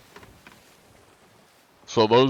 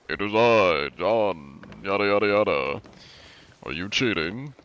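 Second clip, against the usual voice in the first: lightly posh, mock-formal delivery. Shown as a demonstration. Streamer demoing his posh narrator-like voice, lightly grand. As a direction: play at being a grand gentleman. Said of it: "I am talking posh".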